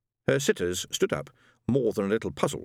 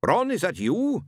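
eager wife; 9 semitones higher, 4 dB louder, slower than usual. Acted. Wife calling to dead husband.

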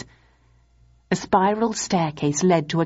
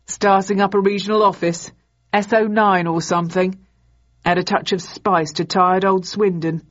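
playful. A narrator's reading. Ross jokes with Thursday.

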